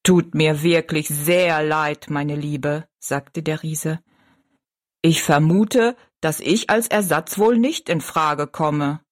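a slow, kindly giant, remembering. Acted. Giant apologizes gently. (Riese, tief und langsam)

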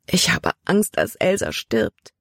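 a frightened sister close to tears; sobbing. Acted. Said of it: "schluchzte sie".

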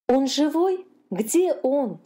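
high, anxious questions from a mother dolphin; worried mother. A narrator's reading. Mother dolphin asking the gulls about her lost calf, anxious and high. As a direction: ask in rising alarm, fearing the worst. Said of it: "волновалась мама дельфиниха".

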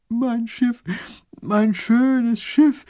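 little grand duke wails over his ship; wailing. A narrator's reading. Grand duke laments losing his beautiful ship, high and whiny. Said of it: "jammert der kleine Großherzog".

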